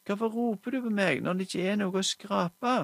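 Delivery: høyt og lyst, oppgitt barn; irritert rop. Acted. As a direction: rop tilbake som et fornærmet barn. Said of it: "ropte Salmonella Mirabella". (jenta roper irritert til moren, høyt og lyst)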